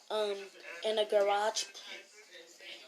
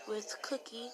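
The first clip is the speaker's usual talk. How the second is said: a retold hushed aside; whispered warning; 7 dB quieter than usual. Crystal warning Jake about Cookie, a retold whisper.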